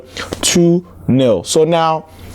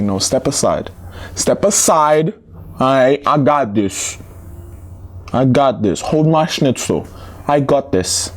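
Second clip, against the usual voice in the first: cocky club boasting in a mock German accent; bad German accent. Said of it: "It's a bad German accent".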